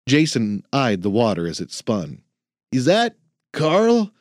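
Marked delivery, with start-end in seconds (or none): 2.7-4.1 slow, higher curious trainee; young man voice. Acted. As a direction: ask it wide-eyed. Jason surprised question.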